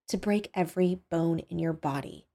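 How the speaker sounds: soft, chilling threat; quiet menace. Acted. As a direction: threaten him very softly. Kidnapper calmly threatens him.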